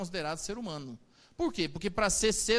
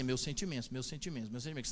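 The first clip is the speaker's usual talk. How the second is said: mock mumbled condolences; 6 semitones lower, 7 dB quieter, faster than usual. Shown as a demonstration. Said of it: "você tem que ir pensando na cabeça assim".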